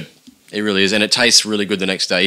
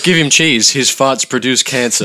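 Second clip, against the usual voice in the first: mock villain order; 5 semitones higher, 5 dB louder, slower than usual. Villain voiced.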